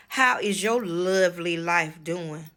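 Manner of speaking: slow, condescending mock question. Mother needling her daughter about her life, condescending. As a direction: imitate a mother's patronizing small talk. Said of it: "Very, very condescending".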